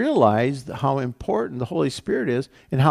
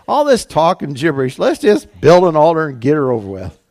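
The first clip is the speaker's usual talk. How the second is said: loud acted impatience, louder as it goes; impatient outburst; 2 semitones higher, 10 dB louder than usual. Preacher voicing Elijah tired of spiritual debate, loud impatience. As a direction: cut through the chatter, loud and fed up.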